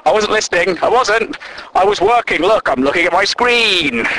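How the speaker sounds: protesting innocence, pitch jumping up; mock defensive denial. Office worker pretending to work after eavesdropping, mock defensive. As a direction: play caught out and hastily deny it.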